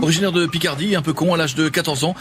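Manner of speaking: Jean-Luc Delarue. Acted. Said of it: "Jean-Luc".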